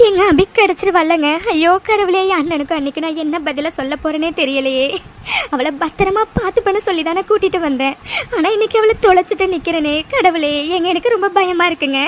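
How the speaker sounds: tearful, frightened lament; fearful. Acted. Wife fears facing her brother without the lost girl, fearful. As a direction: plead to God in worried distress. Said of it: "நீ பயப்படாதம்மா".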